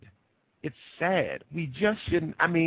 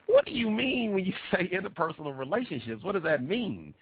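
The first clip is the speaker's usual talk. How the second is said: asks through laughter, half amused; amused disbelief, laughing as he asks; laughing question; 7 semitones higher, 3 dB quieter than usual. Retold or imitated. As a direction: chuckle while quoting the question back. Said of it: "And I said".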